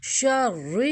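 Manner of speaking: شر with a full, thick doubled r; heavy ra. Shown as a demonstration. Teacher demonstrating for students, شر with heavy ra. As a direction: thicken and hold the r in شر. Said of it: "را کو ہم موٹا پڑھیں گے".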